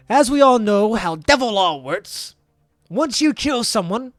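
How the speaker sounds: lightly voiced lawyer making his case; courtroom lawyer. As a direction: argue it before the court, building. Lawyer character's courtroom speech.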